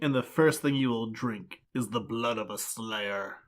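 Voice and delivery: slow, lightly voiced vampire decree; mock villain pronouncement. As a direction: intone it like a hammy vampire leader. Voicing vampire father's sacrificial decree.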